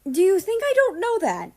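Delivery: loud, high snarl of frustration; growling at a friend who states the obvious; growled. Acted. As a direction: bite back, fed up and furious. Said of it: "Morning growled".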